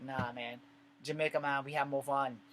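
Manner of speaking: imitating a Jamaican, not very well; bad Jamaican accent. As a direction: attempt a rough Jamaican accent. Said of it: "I did a horrible ass Jamaican accent".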